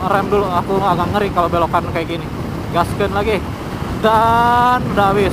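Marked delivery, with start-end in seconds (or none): 2.8-5.3 shouting over wind. Real, not acted. Riding fast in wind.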